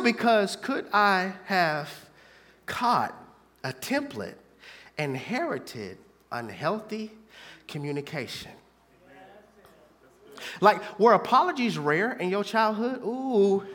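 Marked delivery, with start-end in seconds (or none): 0.0-8.5 much softer, lower and slow; hushed reflection. Acted. Preacher turning reflective to congregation, soft. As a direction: pull right back to near quiet.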